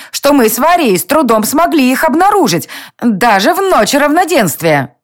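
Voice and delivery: a mischievous fairy telling on the lovers; tiny fairy. A narrator's reading. Fairy's lines. (озорная фея ябедничает, выше)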